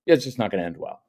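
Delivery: quiet, even, matter of fact; calm matter-of-fact warning; firm calm warning. Shown as a demonstration. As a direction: say it low and level, no heat. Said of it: "I take the energy out of that".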